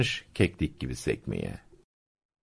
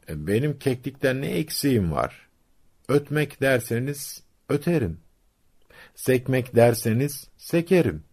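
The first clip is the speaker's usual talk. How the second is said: higher-pitched, mildly indignant retort; offended boast; 7 semitones higher than usual. A narrator's reading. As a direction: protest as the slighted crow, pitched up. Offended crow boasts back. (alıngan, iddialı bir sesle)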